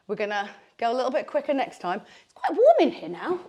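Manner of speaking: breathless from exercise; talking out of breath. Real, not acted. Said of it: "Or I'm just really out of breath".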